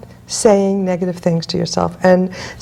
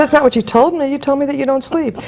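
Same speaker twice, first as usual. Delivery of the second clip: higher-pitched, insistent objection; mock protest; 6 semitones higher than usual. Coach challenging a client on her own words, mock protesting. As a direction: call out the contradiction, pitched up. Retold challenge to woman's claim.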